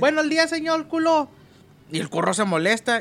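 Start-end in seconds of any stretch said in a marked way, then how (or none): 0.0-1.3 high-pitched mock Chinese accent, r turned to l; chirpy foreigner greeting with a Chinese accent. Chinese man greets the torero with a mock Chinese accent. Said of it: "y le dice".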